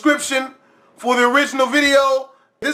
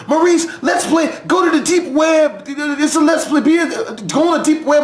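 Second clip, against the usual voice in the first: mock eager fans; 5 semitones higher than usual. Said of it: "And people ask me".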